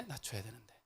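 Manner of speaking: quiet, self-correcting repeat. Shown as a demonstration. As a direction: drop the volume as you repeat it.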